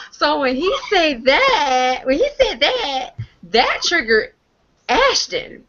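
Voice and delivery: laughing through the words. Real, not acted. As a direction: giggle while telling it. Laughing retelling the roast.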